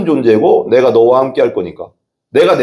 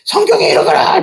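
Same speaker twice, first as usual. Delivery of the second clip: higher, fervent mock preacher's cry; Billy Graham preaching; 8 semitones higher than usual. Pastor mimicking a famous evangelist at a rally, mock fervent cry. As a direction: imitate a crusade preacher's proclamation. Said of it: "막 설교할 때 보면 막 그냥".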